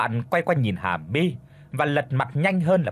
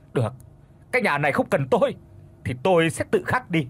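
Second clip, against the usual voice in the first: anguished yelling; 3 semitones higher, faster than usual. Acted. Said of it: "Hà My thì gào lên".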